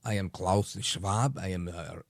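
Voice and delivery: put-on a half-hearted stab at a German accent; Klaus Schwab impression. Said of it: "to do my best Klaus Schwab impression".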